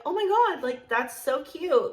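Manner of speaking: high gushing reaction, retold. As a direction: gush "oh my God" high, then stretch it out. Retold gushing over chocolate cake.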